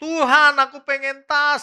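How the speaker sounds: high, loud, mock tearful begging; mock wailing plea. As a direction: ham up a whining mom crying for a bag. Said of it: "sambilnya nangis-nangis setiap hari". (rengekan pura-pura menangis, tinggi dan keras)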